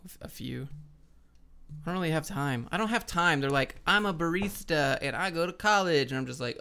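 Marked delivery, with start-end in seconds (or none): 3.9-6.1 put-on lilting, higher-pitched Valley Girl voice; mock a Valley Girl; Valley Girl accent. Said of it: "The Valley Girl accent".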